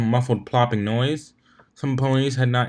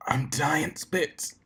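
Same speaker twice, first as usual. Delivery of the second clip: slow, soft mutter barely moving the lips; muttered through pressed lips; 5 semitones higher, 5 dB quieter, much slower than usual. A narrator's reading. Worn-out Soren mutters to his teammate, slow and soft. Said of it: "muttered Soren through pressed lips".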